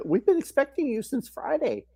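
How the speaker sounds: high, chirpy staff voice; a light take on cheerful nurses; lightly voiced staff. Mom retelling hospital staff's cheery greeting, lightly mimicked. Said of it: "hospital staff was like".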